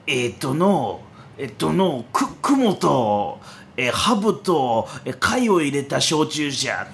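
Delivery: put-on slow, halting old man in dialect; a hint of a rambling elder; creaky wise old man. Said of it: "癖が強いってところまで".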